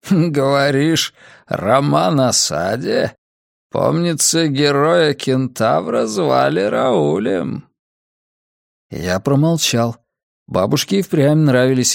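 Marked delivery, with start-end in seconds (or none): 0.1-7.7 a frail, scheming old man, lightly voiced. Old man character speaks.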